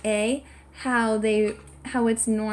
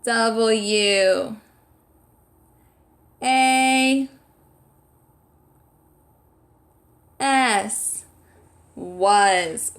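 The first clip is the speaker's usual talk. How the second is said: loud, stretched-out letters, spelled one by one; loud projected voice; 5 dB louder, much slower than usual. Shown as a demonstration. Teacher leads children spelling a word aloud, loud and projected. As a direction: project it big, long pauses between letters. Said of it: "we're saying it loudly. We're projecting our voice".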